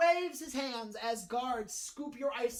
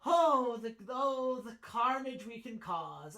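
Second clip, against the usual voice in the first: gleeful gentleman in red; 3 dB louder, slower than usual. Acted. Gentleman in red thrilled at meeting a fallen brother, gleeful.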